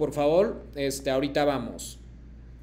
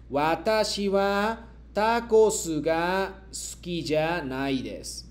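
slow, deliberate model sentence; slow model reading; slower than usual. Shown as a demonstration. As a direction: read it slowly for the class to repeat. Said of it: "yo leo y luego ustedes me repiten".

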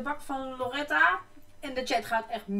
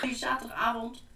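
whispering; 6 dB quieter than usual. Acted. Whispered intro to her evening.

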